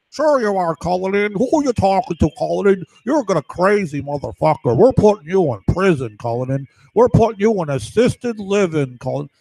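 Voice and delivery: put-on jeering voice, pitch bouncing; mocking heckler. Watcher threatens man with prison, mocking heckler. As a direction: lightly imitate a taunting heckler.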